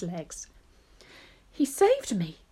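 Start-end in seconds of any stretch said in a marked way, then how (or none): 1.5-2.4 high, lightly gasped exclamation; understated storybook gasp; mild gasp. Acted. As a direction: say it with a touch of breathless amazement. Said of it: "gasped the centipede".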